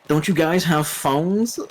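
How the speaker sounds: drawn-out baffled question, mocking; mock clueless presenter. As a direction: lightly imitate an out-of-touch game promoter. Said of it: "dipshit there to promote Diablo Mobile".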